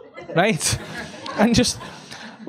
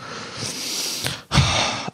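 long exasperated breath; 6 dB quieter than usual. Retold or imitated. Machete's reaction before threat.

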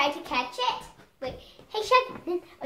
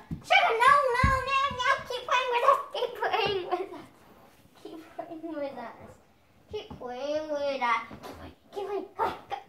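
higher, pleading dog-talk voice; pleading baby voice; 5 semitones higher, 4 dB quieter than usual. Retold or imitated. Girl mimicking how she begs the dog, high pleading voice. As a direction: beg the dog to keep playing in a high voice. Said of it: "it's not correct grammar to say".

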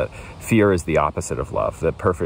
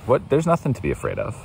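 light, easy comfort, slightly quicker; gently reassuring; 6 semitones higher, faster than usual. Shown as a demonstration. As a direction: brush the fear off kindly. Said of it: "if he was just saying".

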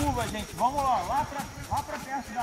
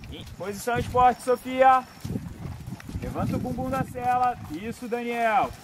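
calling from far away; 4 dB louder than usual. Real, not acted. Instructor calling to riders in arena.

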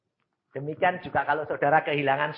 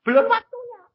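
higher, louder pronouncement; voice of God; 4 dB louder than usual. Retold or imitated. Preacher voices God answering his prayer, higher and louder. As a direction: announce it as God's calm verdict. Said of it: "Dan Tuhan bilang".

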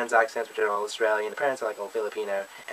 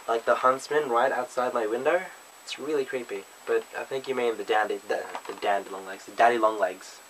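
ordinary delivery

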